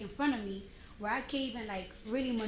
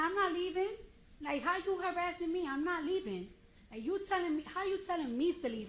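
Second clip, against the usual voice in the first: high-pitched indignant protest; mock-indignant refusal, pitched up; retold argument; 6 semitones higher than usual. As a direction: protest in a raised pitch, retelling a quarrel. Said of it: "And we're arguing".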